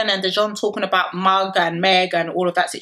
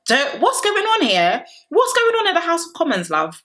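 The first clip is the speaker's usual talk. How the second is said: much higher, drawn-out outrage; exasperated disbelief; 9 semitones higher than usual. Real, not acted. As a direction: throw up your hands at the viewers. Exasperated at fans' claims.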